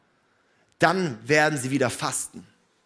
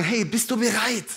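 inviting; 5 semitones higher than usual. Pretend.

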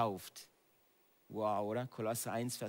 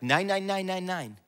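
loud, higher rejection; defiant no; 6 semitones higher, 5 dB louder than usual. Shown as a demonstration. Preacher showing the church how to rebuke the enemy, loud and defiant. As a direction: refuse the lie out loud.

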